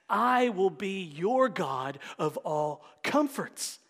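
slow, full-voiced proclamation of the promise; full reading. Shown as a demonstration. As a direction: read it again with conviction. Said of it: "I gotta read it again".

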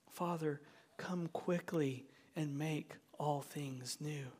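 soft, slow, earnest plea; hushed prayer. Acted. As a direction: bring the prayer down to a slow, quiet close. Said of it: "To cry out and say something like".

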